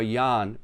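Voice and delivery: Jan as "Yahn", vowel held longer. Shown as a demonstration. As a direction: stretch the "ah" in Jan. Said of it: "makes the vowel longer".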